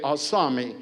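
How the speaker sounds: "Asami" as ah-SAH-mee, soft and falling; model pronunciation. Shown as a demonstration. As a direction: softly model "Asami" syllable by syllable. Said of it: "This is how you say".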